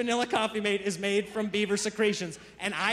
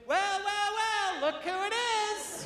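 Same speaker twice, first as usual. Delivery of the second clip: put-on sarcastic wife, stretching the final dig; spiteful wife; 10 semitones higher, 3 dB quieter than usual. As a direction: needle him in a high, spiteful wife voice. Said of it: "just spite visit me".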